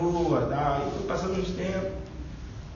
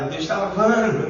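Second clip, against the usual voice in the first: rindo; 5 semitones higher, 7 dB louder, slower than usual. Real, not acted. Cita frase rindo.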